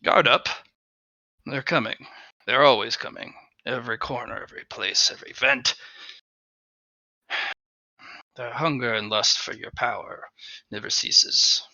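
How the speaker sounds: soft, ominous, fading warnings; paranoid creature voice. Acted. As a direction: hiss warnings from the shadows. Paranoid mask warns of monsters.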